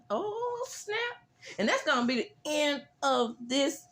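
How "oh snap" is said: oh snap reaction. Real, not acted. Reacting to a clapback.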